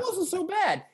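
high croaking emperor voice; Palpatine voice. Acted. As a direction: sneer like an evil emperor. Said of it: "Somehow Palpatine has returned".

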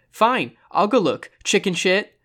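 high, slow, swooping retort; huffy, mocking agreement; exasperated scorn. A narrator's reading. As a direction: give in with a jeer. Scornfully giving in to an argument.

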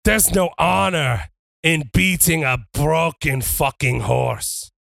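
slowed, lightly voiced wrestler boast; lightly done heel promo over the beaten foe; a hint of a wrestler promo. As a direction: declare it to the arena. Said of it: "Dom goes".

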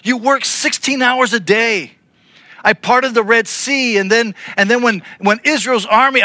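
a touch of wounded exasperation; exasperated God. Retold or imitated. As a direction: play God listing all he did, hurt and fed up. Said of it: "I wonder if he was like".

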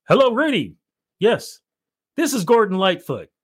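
imitating a singer. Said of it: "I'll do the imitation of it".

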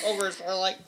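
a bad Scottish accent dissolving into laughter; failed Scottish accent, laughing; attempted Scottish accent. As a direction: try a Scottish brogue and crack up. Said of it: "in your best Scottish accent".

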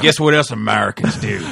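comic Australian impression; Australian accent. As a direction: put on an Aussie accent for the question. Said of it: "I don't know why I got Australian".

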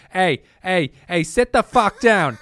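loud, exaggerated Boston accent jokingly imitating a movie tough guy; Ben Affleck Boston tough guy. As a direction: imitate a movie Boston thug telling someone to sit down, in a thick Boston accent. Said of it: "it's Ben Affleck just going like".

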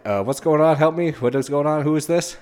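high, frantic mock panic; panicked. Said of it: "Catalina's like".

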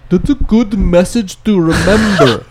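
high, slow distant holler; calling back. Acted. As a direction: call it back across a distance, drawn out. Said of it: "like, calls back to".

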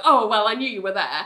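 casual, everyday delivery; shrugging it off. Retold or imitated. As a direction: lightly play it cool. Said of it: "trying to shrug it off".

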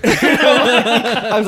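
laughing hard. Real, not acted.

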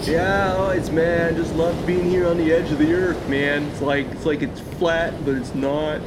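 laid-back surfer bro; stoned beach bro voice; surfer dude. Acted. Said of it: "the surfer voices".

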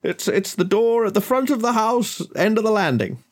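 high, sustained host voice; helpful host giving directions. Acted. Host directs a guest upstairs to the bathroom, high helpful voice. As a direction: sing out directions well above your own pitch.

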